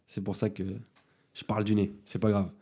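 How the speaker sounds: blocked nose, speaking through the nose; talking with a cold; stuffy nose. Real, not acted. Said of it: "Désolé pour mon nez, il est un petit peu bouché".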